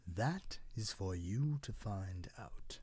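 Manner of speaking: put-on slow, hushed old tree. Cedar gently leaves the cloud to wonder, hushed. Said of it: "said the old tree".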